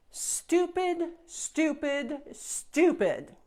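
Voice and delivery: sing-song taunt, each word dropping. Acted. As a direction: jeer it three times like a brat. Princess taunting the fairy.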